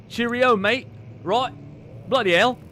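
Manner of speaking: a light, hammed-up British accent; mock British accent. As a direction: play a jokey Brit with a British accent. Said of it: "this game is very British".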